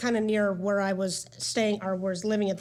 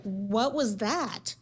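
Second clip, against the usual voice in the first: amazed; much slower than usual. Retold or imitated. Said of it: "I was just like".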